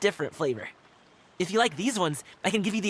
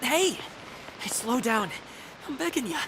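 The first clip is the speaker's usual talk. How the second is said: calling out; 7 semitones higher than usual. Acted. Calling after someone rushing ahead.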